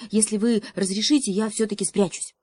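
a brave but scared messenger; nervous hare. Acted.

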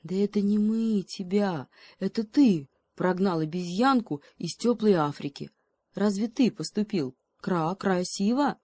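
a wise bird telling him off; scolding crow. Acted.

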